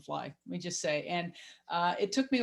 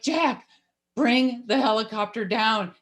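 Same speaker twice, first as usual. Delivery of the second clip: half-held yell; 3 semitones higher, 6 dB louder, slower than usual. Retold or imitated. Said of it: "I wanna yell at him".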